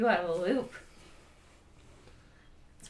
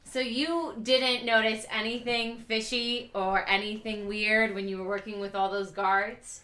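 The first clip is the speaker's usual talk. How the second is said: put-on slower, louder repeat for an old ear; louder and clearer. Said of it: "You wanna say that again? I didn't catch it".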